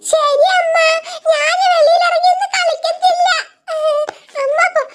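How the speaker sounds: put-on high, small childlike chick voice; a tiny chick promising mother to stay indoors; little chick voice. Little chick tells her mother she'll stay inside, in a high childlike voice.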